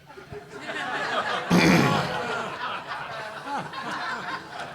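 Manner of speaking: real, high-pitched laugh; sudden high laugh; high burst of laughter. Real, not acted. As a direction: crack up at the question.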